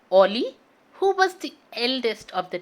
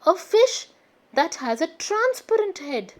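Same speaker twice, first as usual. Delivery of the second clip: in wonder; 4 semitones higher than usual. Acted. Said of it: "Tiger said in a wonder".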